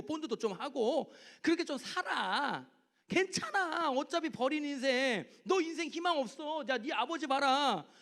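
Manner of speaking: 높게 비아냥대는 마귀의 속삭임; 희망을 짓밟듯 깔보는 마귀; 조롱하는 마귀. Retold or imitated. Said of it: "끊임없이 마귀가 유혹하는 거야". (높고 비꼬는 마귀 목소리)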